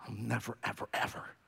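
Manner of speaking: hushed, soft whisper; softly whispered promise to the congregation. Acted. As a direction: lean in and whisper it.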